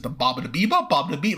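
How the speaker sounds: mock Italian accent, Family Guy style; cartoonish Italian gibberish; Peter Griffin Italian accent. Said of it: "Peter Griffin doing an Italian accent".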